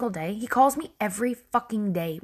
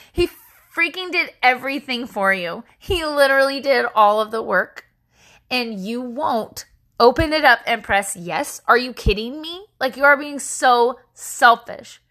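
imitating an incredulous telling-off, slightly raised; mock scolding; 3 semitones higher, 3 dB louder than usual. Friend calling out the wife's selfishness, mock scolding. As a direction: call them out with emphatic, mild indignation. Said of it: "she called me out".

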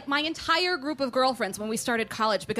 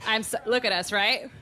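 halting pretend-drunk argument; badly faked drunk; 2 semitones lower than usual. The speaker defending her act to suspicious friends, badly faked drunk. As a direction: drag it out with gaps, bluffing drunkenness. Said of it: "are you pretending to be drunk".

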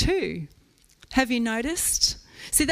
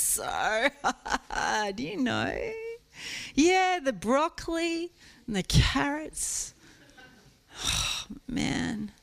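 sheepish laugh; 3 semitones higher, slower than usual. Retold or imitated. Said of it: "This lady came up".

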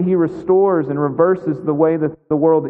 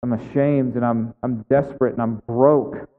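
woman's shame; 2 semitones lower than usual. Retold or imitated. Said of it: "the woman going".

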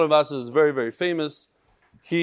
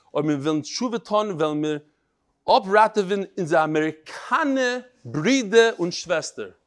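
Litvish Yiddish. Retold or imitated. Rabbi reads a martyr's last words to his class, Litvish Yiddish. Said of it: "in the Litvish Yiddish".

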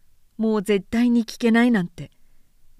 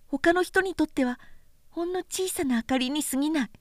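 put-on a lightly higher boyish voice, tender and earnest; little prince voice; 4 semitones higher than usual. Small prince consoling the pilot, lightly higher boyish voice. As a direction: speak like a small boy comforting a friend.

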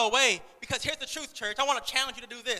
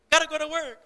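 loud, higher mother voice; insistent imitated mom; 5 semitones higher, 8 dB louder than usual. Mom leaving for work to pleading toddler, imitated insisting. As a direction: insist over the child, higher and louder. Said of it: "And she's like".

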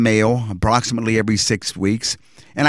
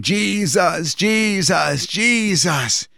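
slightly raised, urgent calling of Jesus; shouting a name while running; 4 semitones higher, much slower than usual. Retold or imitated. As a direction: call the name out as you run down the mountain.

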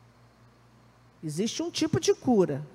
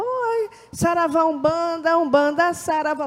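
lightly hammed-up ritual greeting; showy mock greeting; 6 semitones higher, 3 dB louder than usual. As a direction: parody someone putting on a show at the terreiro. Mocking showy terreiro greeting.

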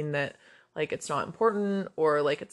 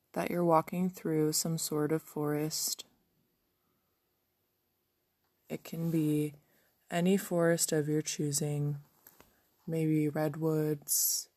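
guided meditation. Acted. Guided meditation, breathing then visualization.

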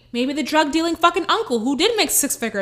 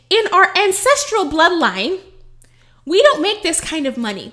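police officer voice; 6 semitones higher, 6 dB louder than usual. Acted. Inner child cop reading the family record, stern. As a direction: recite it like a stern officer with the file open. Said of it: "opens up the file".

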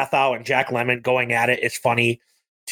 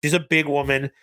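ordinary delivery

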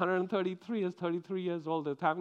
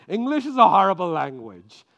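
louder repeat to make it stick; 9 dB louder than usual. Shown as a demonstration. Preacher repeating the point louder so it sticks. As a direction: hammer the line home, much louder. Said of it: "let it get stuck in your mind".

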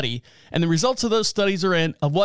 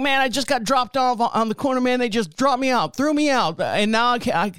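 higher, pleading drifter voice; stranded guy voice; 6 semitones higher than usual. Retold or imitated. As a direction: play a desperate hitchhiker.

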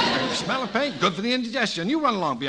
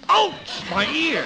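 high loud yelp; yelp of pain; 10 semitones higher, 5 dB louder, slower than usual. Acted. Husband yelps in pain as his ear is bitten, loud and high.

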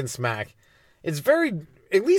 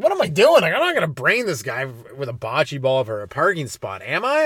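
incredulous self-questioning; 3 dB louder than usual. Retold or imitated. Arguing with himself in retold thought.

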